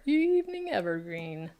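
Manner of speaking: lightly imitating a butler; a hint of a stuffy butler. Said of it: "says it like a butler".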